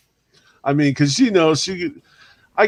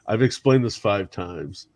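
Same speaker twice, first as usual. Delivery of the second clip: weary friend; 5 semitones lower, 4 dB quieter than usual. Retold or imitated. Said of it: "He's like".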